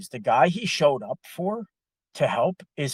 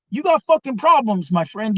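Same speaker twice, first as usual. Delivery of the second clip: much higher, louder fast mock tirade; imitated angry rant; 9 semitones higher, 8 dB louder than usual. Italian co-worker berating the nonstop talker, loud mocking rant. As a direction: pile on the sarcasm at him. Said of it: "he finally lost it on Ron".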